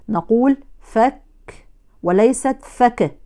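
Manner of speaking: "فك" first with a breathy kaf, then with a voiced bounced kaf, slowly; breath versus voice kaf. Shown as a demonstration. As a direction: contrast the two kafs in "فك". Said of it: "انتبهوا للفرق".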